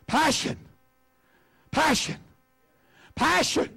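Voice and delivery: "Passion" lifted high and rung out to the room; ringing call. Shown as a demonstration. Preacher calling "Passion" out high to the congregation. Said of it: "Everybody say passion".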